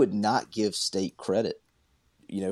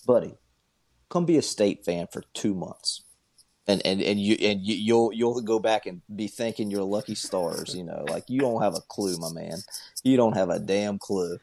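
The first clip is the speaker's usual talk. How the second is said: mocking retort. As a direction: talk down to him, dragging it out. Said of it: "And I'm like".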